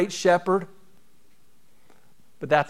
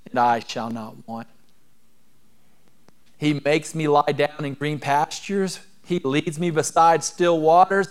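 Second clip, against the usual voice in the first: scripture reading. Acted. Reads Psalm 23 aloud.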